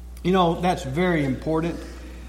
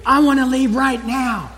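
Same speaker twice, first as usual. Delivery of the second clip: put-on high whiny little girl voice; mock toddler scream; 7 semitones higher than usual. Preacher imitating a screaming girl at the store. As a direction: whine it like a tantrum child. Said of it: "screaming and yelling".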